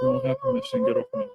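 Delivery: very high whiny cry; squeaky high protest. Pretend. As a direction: squeal like a cartoon.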